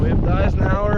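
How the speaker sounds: loud and high over the wind; shouting over wind. Real, not acted. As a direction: call out over howling wind.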